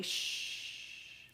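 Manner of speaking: soft unvoiced shush; whispered shush. Shown as a demonstration. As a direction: hush the room with a shh. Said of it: "you're all gonna say".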